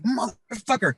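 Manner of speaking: high-pitched drawn-out retold swearing; acted-out fed-up outburst; exasperated curse. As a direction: curse as you charge back in. Fed up, charges back in.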